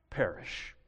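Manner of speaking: sudden soft unvoiced whisper after the shout; whispered perish. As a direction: drop to a hushed breath. Whispered climax word.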